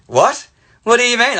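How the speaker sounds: mock-incredulous, pitch jumping up; taken aback. Student to teacher on being asked to leave, incredulous.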